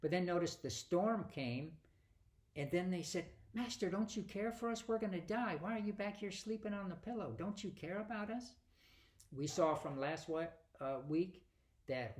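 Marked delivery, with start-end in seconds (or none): 3.5-8.6 higher-pitched, pleading mock panic; panicked disciple. Preacher voicing the disciples waking Jesus in the storm, hammed-up panic. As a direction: cry out to the sleeping master as if going under.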